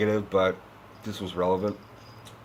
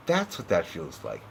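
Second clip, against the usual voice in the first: much lower and softer raspy growl on "That's what that feels like"; Batman voice again; 7 semitones lower, 9 dB quieter than usual. Shown as a demonstration. Showing Bale's needless voice, low raspy growl. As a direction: rasp the line low like Batman. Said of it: "Speak normally".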